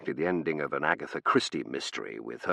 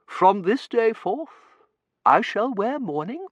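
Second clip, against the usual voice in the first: solemn mourning mother; 5 dB louder, slower than usual. Acted.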